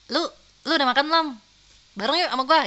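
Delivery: loud, matey question; casual buddy intonation. Acted. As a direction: toss it out like to a pal. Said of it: "itu intonasi untuk menutupi bahwasanya lu friendzone".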